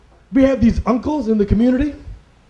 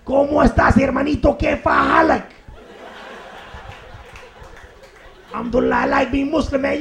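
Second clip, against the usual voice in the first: put-on higher-pitched Latino accent; 4 semitones higher than usual. Latino Muslim brother chats with his friend, Latino accent. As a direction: play an animated Latino brother. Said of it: "one of our Latino Muslim brothers".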